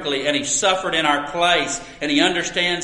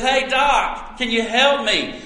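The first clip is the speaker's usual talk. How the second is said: mock shout; 4 semitones higher than usual. Man in a hole calls to a passing doctor, mock shout. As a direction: lightly imitate calling up for help. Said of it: "and he shouts".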